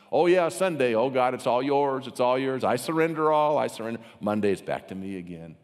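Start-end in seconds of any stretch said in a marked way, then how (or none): 0.1-4.0 louder, eager Sunday churchgoer act; imitating an over-keen worshipper; mock surrender. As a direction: gush in mock devotion, quickly handing it all over. Mimics gushing Sunday churchgoer surrendering.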